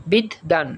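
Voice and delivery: বিদ্যান said as bid-dan, both Ds sounded apart; low, deliberate বিদ্যান with a held double D; doubled D. Shown as a demonstration. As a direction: split বিদ্যান between its two Ds. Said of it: "বিদ্যানে দ উচ্চারণ হয় দুইবার".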